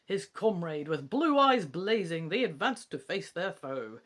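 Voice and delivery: lightly put-on English accent reciting verse; attempted English accent. Bard reciting lines fed by Faye, in a tentative English accent. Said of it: "I'll try putting on a wee English accent".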